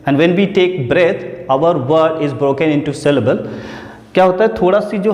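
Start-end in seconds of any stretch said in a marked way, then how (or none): 0.1-3.4 slow, deliberate English explanation. Shown as a demonstration. Teacher explaining syllables slowly in English. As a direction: spell it out slowly for the class. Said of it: "जब भी हम किसी word को बोलते हैं".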